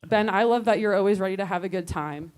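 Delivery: slow, careful retake. Shown as a demonstration. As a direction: say it slowly, weighing each word. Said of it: "Maybe we just do the Ben".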